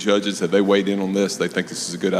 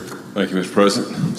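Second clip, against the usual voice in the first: out of breath. Real, not acted. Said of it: "Sorry, I'm out of breath and coming up the stairs".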